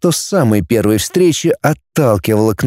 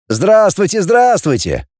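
beaming; 7 semitones higher, slower than usual. Acted. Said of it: "залучился Воронин".

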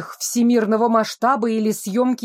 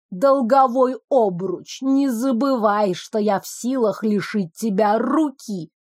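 menacing. Acted. Вабу угрожает героине долгом.

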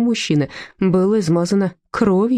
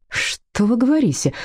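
delighted gasp; 5 semitones higher than usual. Acted. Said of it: "восторженно охнул Мышкин".

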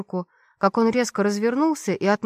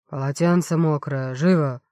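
doctor's order; 4 semitones lower than usual. Acted.

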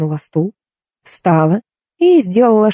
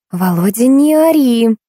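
reproachful; 6 semitones higher, slower than usual. A narrator's reading. Woman telling man not to yell in café, reproachful. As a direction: voice rising high on a mild reproach. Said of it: "сукоризной покачала головой женщина".

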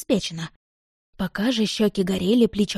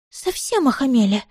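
militant; 5 semitones higher than usual. Acted. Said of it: "воинственно произнесла Ария".

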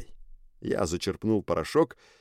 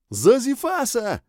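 high, loud, slow creature cry; shouting; 5 dB louder, slower than usual. A narrator's reading. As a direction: shriek it like a pack. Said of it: "кричали они наперебой".

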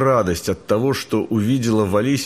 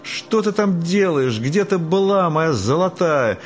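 high, slow call from a window; 8 semitones higher than usual. Acted. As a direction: call the cat home, coaxing. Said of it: "кричала Фаняша". (зовущий крик из окна)

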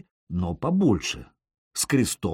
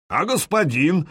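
shout; 6 semitones higher, 4 dB louder than usual. A narrator's reading. Guard calls from wall.

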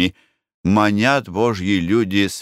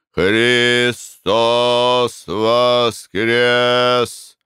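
solemn proclamation; 2 semitones higher, much slower than usual. Acted. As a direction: proclaim it slowly, rising in power. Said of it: "торжественным голосом возгласил".

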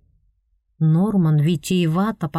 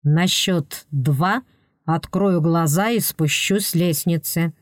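grim warning. Acted. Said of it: "Норман мрачно предупредил".

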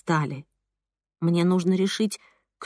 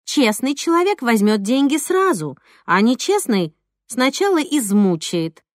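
lightly voiced friend explaining; 4 semitones higher than usual. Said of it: "Алёна пояснила".

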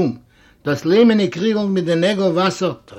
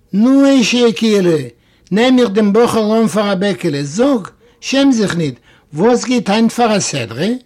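coaxing guest; 4 semitones higher than usual. Acted. Coaxing the boy at celebration.

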